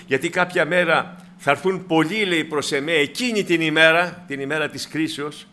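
ordinary talk

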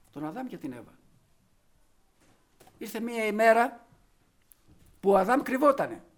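ordinary talk

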